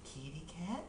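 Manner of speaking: soft unvoiced whisper. Real, not acted. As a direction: whisper the question. Unvoiced question.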